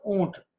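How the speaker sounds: ઊંટ with a long held ઊ; long-vowel ઊંટ. Shown as a demonstration. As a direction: draw out the ઊ in ઊંટ. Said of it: "ઉચ્ચારણ લાંબો જ કરો છો".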